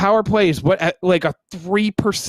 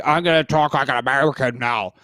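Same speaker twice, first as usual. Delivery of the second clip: foreigner's exaggerated American accent; mock a clumsy American accent; bad American accent; 4 semitones lower than usual. Host imitating listener from New Zealand, bad American accent. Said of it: "if he tried to jump on".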